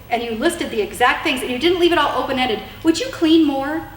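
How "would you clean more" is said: vague request, mocked. Shown as a demonstration. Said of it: "What does that even mean?".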